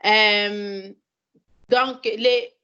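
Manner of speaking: non-native French speaker; French as a second language; foreign accent in French. Real, not acted. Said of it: "mon français est très mal".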